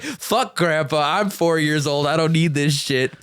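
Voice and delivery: laughing mock-tough kid voice; defiant kid. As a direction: play a cocky little kid, giggling.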